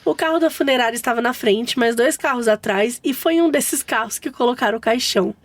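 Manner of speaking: steady, even read-aloud; story narration. A narrator's reading. Host reads mother-in-law's funeral mishap to co-hosts, story narration. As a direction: tell the tale as written, evenly.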